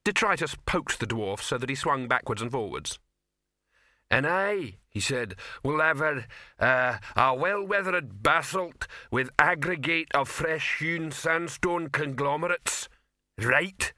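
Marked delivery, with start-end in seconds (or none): 4.1-13.9 troll ordering. Acted. Troll orders rock dinner.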